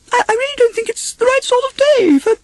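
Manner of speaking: very high, stammering and anxious; backing away while making excuses; nervous Piglet. Acted. Piglet dodging the adventure, high stammering fret. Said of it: "trying to sound knowledgeable".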